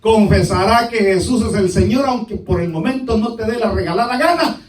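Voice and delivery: loud, emphatic preacher, key words stretched; preaching. Real, not acted. Preacher warning a resistant congregation, emphatic preaching. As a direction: preach it out forcefully.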